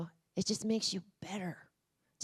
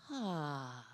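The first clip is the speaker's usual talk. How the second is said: short, weak exhaled ha; 4 semitones lower, 5 dB quieter than usual. Shown as a demonstration. Volunteer tries the coach's breathing exercise, weakly. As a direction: let out a feeble breathy ha. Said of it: "Oh, that's so weak".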